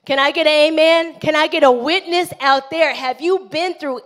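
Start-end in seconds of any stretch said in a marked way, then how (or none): 0.1-2.9 quick, louder call for an amen; rally the crowd for an answer; fast, louder "amen?" thrown out to the room; preacher's call. Real, not acted. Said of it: "calls on the congregation".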